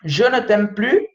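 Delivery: "Je ne t'aime plus" slowly, "plus" as "plu" with a rise; slow French example. Shown as a demonstration. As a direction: spell out "Je ne t'aime plus", S silent. ("Je ne t'aime plus" devagar, "plus" sem S)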